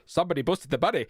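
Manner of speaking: hammed-up Spanish accent, a bit off; badly attempted Spanish accent for an advert quote. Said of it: "that was a Spanish accent I attempted".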